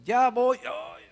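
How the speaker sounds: high, whiny reply from upstairs; a son answering lazily; lightly voiced teen. Son calls down to his mother, a bit high and whiny. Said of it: "luego contesta David".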